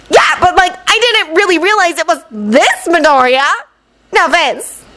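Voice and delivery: put-on high, casual girl voice; airy offhand girl; ditzy girl. Mina's voice in story.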